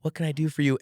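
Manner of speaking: sweet and gentle like a grandma at the door; sweet old lady. Retold or imitated. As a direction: kind elderly woman greeting a salesman. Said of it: "sweet old lady and she says".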